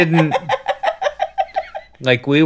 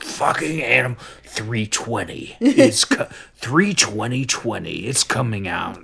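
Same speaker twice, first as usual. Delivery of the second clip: hushed excited imitation. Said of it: "She's like".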